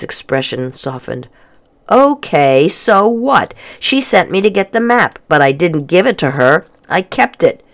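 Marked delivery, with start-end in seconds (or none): 1.9-7.6 lightly voiced defiant girl, a touch higher; girl brushing it off; a hint of a teenage girl, defensive; Lorelei.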